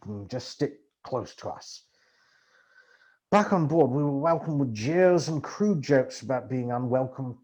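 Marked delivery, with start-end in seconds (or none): 0.1-1.8 softer, slow uncertain mumble; mumbled. Acted. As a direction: mumble it, unsure. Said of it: "He nodded uncertainly and mumbled".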